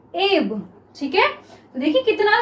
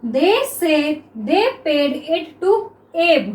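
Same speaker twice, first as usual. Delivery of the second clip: each word drawn out slowly for students; very slow classroom dictation; slow dictation read; much slower than usual. Shown as a demonstration. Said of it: "next देखिए".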